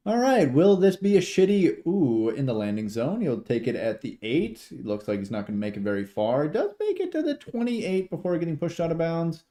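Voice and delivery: rising and falling game call; live play-by-play. Real, not acted. Streamer calls a kick return as it happens, live play-by-play.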